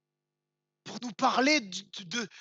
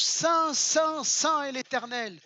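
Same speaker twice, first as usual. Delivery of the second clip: proclaiming loudly; 3 semitones higher, 4 dB louder, slower than usual. Acted. Angels' praise, preached aloud.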